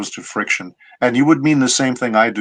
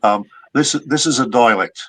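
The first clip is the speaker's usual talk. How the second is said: Australian accent. Shown as a demonstration. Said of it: "if I was gonna be down under as an Aussie".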